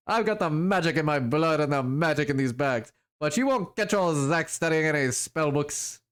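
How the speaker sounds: mock-offended, in a lightly put-on foreign accent; Zach's muddled accent. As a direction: protest with a swagger in a muddled European accent. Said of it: "what accent I'm doing for him".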